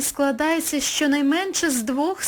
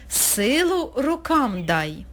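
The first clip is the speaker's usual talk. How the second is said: slow request; 2 semitones higher, slower than usual. Shown as a demonstration. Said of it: "спонукальними".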